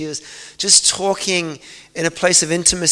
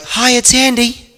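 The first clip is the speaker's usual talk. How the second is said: cheerful phone greeting; 6 semitones higher, 3 dB louder than usual. Retold or imitated.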